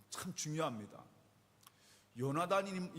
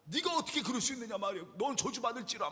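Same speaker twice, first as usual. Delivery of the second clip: acted angry tirade, pitched higher; angry cursing; 4 semitones higher than usual. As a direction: rail at a son like an enraged father. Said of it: "온갖 쌍욕을 하기 시작하면서". (화내며 욕하는 흉내)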